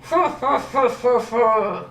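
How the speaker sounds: closed-mouth mocking chuckle; crocodile laughing. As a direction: laugh through shut jaws. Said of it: "just laughed and laughed".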